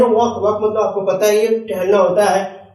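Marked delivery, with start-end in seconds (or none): 0.0-0.4 वॉक with no L sound; silent L. Shown as a demonstration. Teacher showing how walk is read, silent L in वॉक. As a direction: say वॉक, dropping the L before k. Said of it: "यहाँ पढ़ेंगे".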